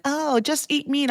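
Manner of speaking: mock dismissive. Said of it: "it's like".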